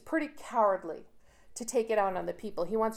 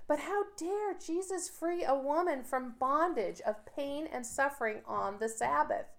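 higher-pitched sarcastic indignation; mock outrage; 4 semitones higher than usual. Teacher mimicking hypocritical leaders' objection to healing, mock outrage. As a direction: feign being scandalized.

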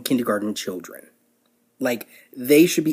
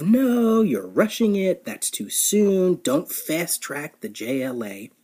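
whiny fan cries; 4 semitones higher, slower than usual. Retold or imitated. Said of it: "the cries of".

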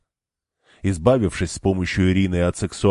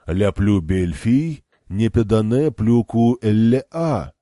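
put-on terrible French accent. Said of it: "с ужасным прононсом произнёс он".

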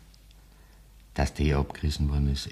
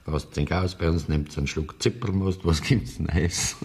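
imitating friendly host. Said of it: "hast die angezahnt".

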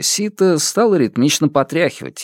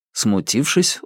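usual speaking voice

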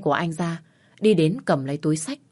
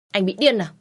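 "Anh bị điên à?" said a little higher and louder, stress on "điên" but no yell; irritated retort; 4 semitones higher, 4 dB louder than usual. Acted. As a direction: snap it back, annoyed but not screaming. Second, milder retort.

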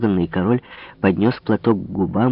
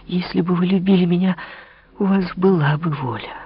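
put-on higher, reproachful young woman's voice; Marie reproachful; 9 semitones higher than usual. Marie reproaches the king, pitched up. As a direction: reproach him, lightly voiced.

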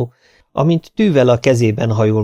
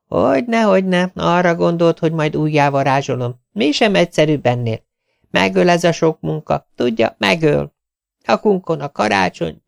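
lightly voiced tailor, higher, moaning about work; complaining tailor; 6 semitones higher than usual. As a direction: sigh over the endless work.

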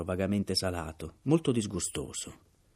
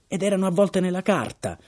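a loud, high cry; shouting; 12 semitones higher, 8 dB louder than usual. A narrator's reading. Captain shouts at Mr Burns about the wrapped bottles, loud and high. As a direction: hurl the words out in outrage.

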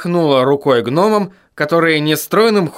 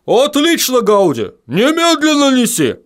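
high, urgent barked command; гаркнуть приказ гному; barked order; 11 semitones higher than usual. Acted. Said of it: "рявкнул Баддони".

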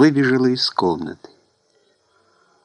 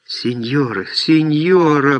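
drawn-out moan, swelling higher on the repeat; moaned plea; 5 semitones higher, slower than usual. A narrator's reading. Julia pleading with her mother, moaning. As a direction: moan it imploringly. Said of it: "простонала Хулия".

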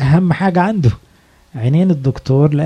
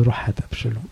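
a soft, calm order with no bark; calm, not scolding; 4 semitones lower, 7 dB quieter, faster than usual. Retold or imitated. King David calmly telling Joab to fetch Absalom, soft and mild. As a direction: gently send him off, no anger in it. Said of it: "مش بشخط".

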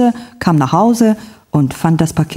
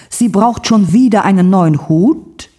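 a hushed, stunned question; shocked whisper; 3 semitones higher than usual. Acted. Erna hears Lotte needs hat. (ungläubiges Flüstern)

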